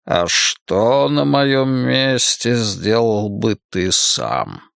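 curious villain. Acted. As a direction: ask it like a cat toying with prey. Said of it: "полюбопытствовал Мак".

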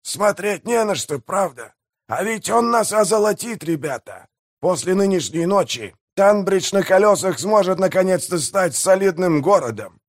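high-pitched mayor voice, relishing the prospect; gleeful pirate mayor. Acted. Pirate mayor promises his crew riches, high and gleeful.

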